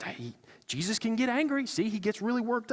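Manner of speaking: smug half-joking justification; mock smug excuse. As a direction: sell the self-serving excuse with a grin. Mocking self-justifying churchgoers.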